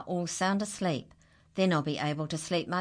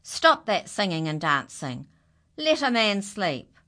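loud, cross order; angry shout; 4 semitones higher, 7 dB louder than usual. Acted. Farmer shouting at his animals to stop, angry. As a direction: yell it to stop the noise. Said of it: "As he shouted".

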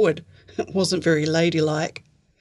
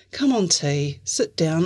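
gentle coaxing. Acted. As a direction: ask her kindly to sit. Grant gently coaxes T.

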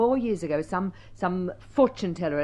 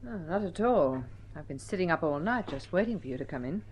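heavy sarcasm. Acted. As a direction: lay the sarcasm on thick. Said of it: "my heavy sarcasm".

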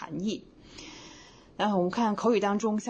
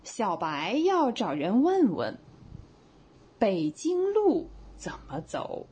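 slow demo read; 3 semitones higher, slower than usual. Shown as a demonstration. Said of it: "比如说".

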